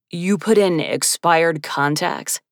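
slow, incredulous disapproval; offended. Acted. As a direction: sound personally insulted. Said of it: "He sounded personally offended".

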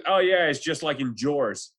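slow imitated Rhode Island accent; thick Rhode Island accent. The speaker chats to Heidi in thick Rhode Island accent. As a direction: draw out a Warwick accent. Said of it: "thick accent".

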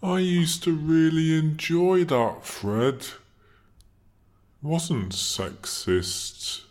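a hint of a leering mad scientist; creepy scientist. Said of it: "you sound like a creepy scientist from a seventies Hammer horror movie".

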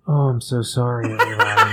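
clumsy put-on voice. Host mocking his own bad voices, squeaky and clumsy. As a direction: botch the voice and squeak out the last word. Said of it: "How come when I do voices".

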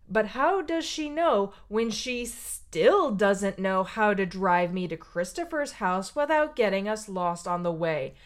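put-on kid's sass. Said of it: "I'm gonna say".

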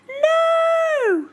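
high, loud alarmed shout; sharp loud protest; cry of no. Acted. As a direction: stop him before he touches it. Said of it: "cried Bear, Hedgehog and Mouse".

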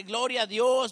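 loud retold cry of praise; imitated joyful exclamation. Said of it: "me abraza con un gozo".

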